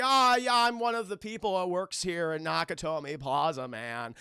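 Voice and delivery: lightly mocked fake American accent; a hint of a badly faked American accent; goofy American accent. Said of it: "attempts to do an American accent".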